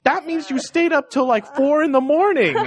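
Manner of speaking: laughing accusation. Retold or imitated. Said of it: "And then I was like".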